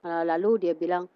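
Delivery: ordinary talk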